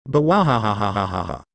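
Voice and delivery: a mocking laugh that runs on; burst of laughter.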